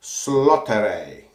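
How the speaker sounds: Slottere said slowly and deliberately; careful pronunciation attempt. Shown as a demonstration. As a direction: sound out Slottere, stretched out. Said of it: "I think is pronounced".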